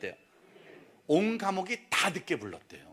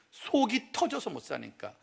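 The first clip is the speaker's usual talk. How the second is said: ordinary delivery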